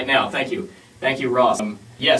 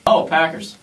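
slurred; 3 semitones higher, slower than usual. Pretend. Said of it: "A little slurred though".

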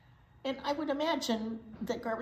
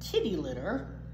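a lightly voiced swaggering truck; boastful garbage truck; slower than usual. Reading to kids, a cocky garbage truck brags. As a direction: brag like a proud garbage truck.

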